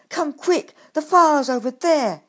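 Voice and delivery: loud urgent call to the firefighters. Acted. Badger calls firefighters to the burning shed, loud urgent call. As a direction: shout it across the yard, urgent. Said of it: "he called".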